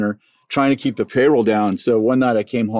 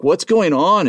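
bewildered; 8 semitones higher, 3 dB louder, slower than usual. Retold or imitated. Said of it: "I'm like".

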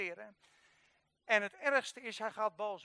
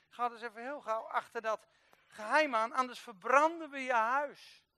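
acted threat, getting louder on the last clause; 4 dB louder than usual. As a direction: press it as an urgent threat, building. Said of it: "een dreigement".

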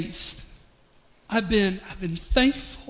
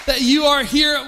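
loud, raised, joyful calling out; excited welcome; 4 semitones higher, 3 dB louder, slower than usual. Real, not acted. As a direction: welcome the crowd with a big cheer. Opening celebration, greeting the congregation.

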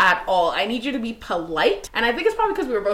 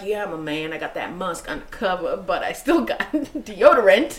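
macho man voice; 3 semitones lower than usual. Pretend.

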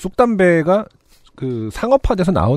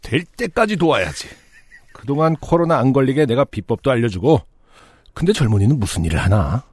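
put-on very old man. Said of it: "할아버지".

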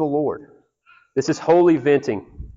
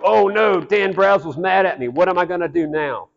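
higher, hammed-up fretting; mock panicked God; 4 semitones higher than usual. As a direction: lightly play a flustered God, tongue in cheek. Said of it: "Is he gonna go".

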